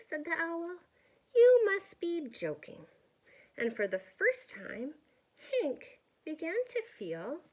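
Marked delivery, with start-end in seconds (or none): 1.3-2.9 loud, higher incredulous scoff; scoffing owl. Acted. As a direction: laugh off the offer. Owl refuses hug.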